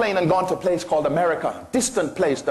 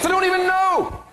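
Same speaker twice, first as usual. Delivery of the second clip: emphatic peak; 13 semitones higher than usual. Acted. Preacher peak.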